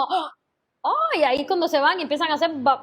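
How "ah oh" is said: startled little gasp, then a high "oh"; high-pitched mock bewilderment; mock lost gasp. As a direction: imitate students left without a reference. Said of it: "se quedan como".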